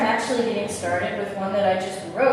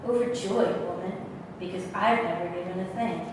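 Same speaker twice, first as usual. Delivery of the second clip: softer, measured poem recital; poetry reading; 4 semitones lower, 6 dB quieter than usual. Acted. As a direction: recite your own poem quietly, with pauses. Reads own poem aloud.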